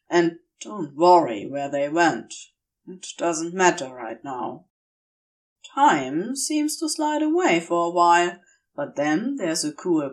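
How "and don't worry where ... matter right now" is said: lower, dry demon voice; Crowley, lowered. Acted. Crowley, dry and clipped, cleaning Aziraphale's wounds.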